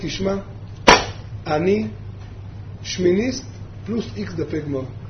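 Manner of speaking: low, soft voice, in great pain. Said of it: "בכאב עצום".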